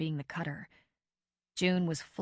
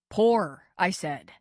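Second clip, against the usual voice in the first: louder, snapped command; mild stern order; 7 dB louder, slower than usual. A narrator's reading. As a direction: insist firmly on being obeyed. Character voice in read story.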